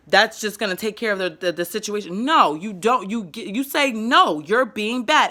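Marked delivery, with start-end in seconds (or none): 3.9-5.3 put-on slow firm child talk. Shown as a demonstration. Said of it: "you let them know why".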